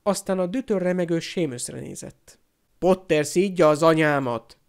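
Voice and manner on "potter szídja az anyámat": loud, outraged accusation; contained shout of indignation; shouted complaint. Acted. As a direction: call it out loudly as a grievance. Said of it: "kiabálta a szőke fiú".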